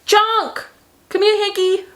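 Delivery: high, sing-song call to a dog; pet voice. Real, not acted.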